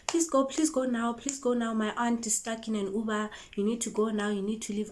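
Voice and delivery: mock-urgent begging to hurry; rushing, pleading. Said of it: "she was rushing me".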